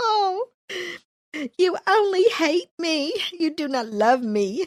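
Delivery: whiny, tearful-sounding, slow, high moan. Acting out someone's complaint, in a put-on whiny voice. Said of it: "I'm trying to get my whiny voice going on".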